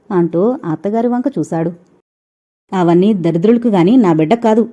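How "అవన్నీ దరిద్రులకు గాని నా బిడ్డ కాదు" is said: louder, bristling like a tigress; mother flares up at the son-in-law; fierce retort. Acted. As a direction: snap back to defend her daughter. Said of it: "ఆడపులిలా లేచింది రాధమ్మ".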